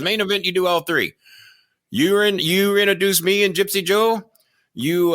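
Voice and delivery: hammed-up Japanese-accented wrestler impression; fake Japanese accent. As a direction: do a badly faked Japanese accent, pitched high. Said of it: "my horrible, uh, fake Japanese accent".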